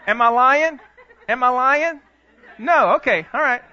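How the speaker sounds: high, loud words through real laughter; can't keep a straight face; laughing. Real, not acted. Pastor cracking up at his own story, loud laughing questions.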